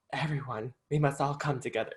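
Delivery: put-on light Southern accent, a country singer's line. Imitating a country singer as homeless angel, rough Southern accent. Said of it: "That's my Southern accent".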